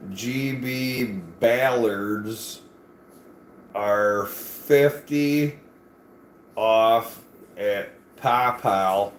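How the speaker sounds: slow, halting read-aloud of a sign; mock slow reading for those who can't read. Shown as a demonstration. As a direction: spell out the label word by word, slowly. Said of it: "say this out loud for the people that can't read".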